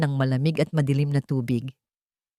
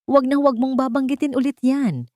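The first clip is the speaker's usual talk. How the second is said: higher, louder warning threat; threatening; 8 semitones higher, 3 dB louder than usual. Acted. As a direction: bite down hard on every word. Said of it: "banta ni Leandro".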